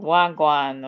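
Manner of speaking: casual, approximate try at Jamaican, rising at the end; attempted Jamaican accent. Shown as a demonstration. Streamer guessing at the saying, rough Jamaican accent. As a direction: toss out a rough Jamaican greeting. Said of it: "or something like that".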